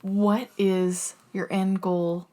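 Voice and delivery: breathy low whisper. Acted. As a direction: hush it like a secret. Dramatic podcast question whisper.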